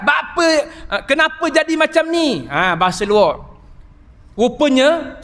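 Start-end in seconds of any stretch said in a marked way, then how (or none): 0.0-2.5 higher plea in standard Malay, not Terengganu dialect; standard outsider Malay. Retold or imitated. The ustaz contrasts how outsiders ask, in standard Malay. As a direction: say kenapa jadi macam ni the standard way. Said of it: "Orang luar cakap".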